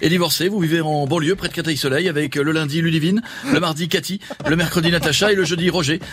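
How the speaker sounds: Jean-Luc Delarue. Acted. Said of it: "bonsoir Jean-Luc".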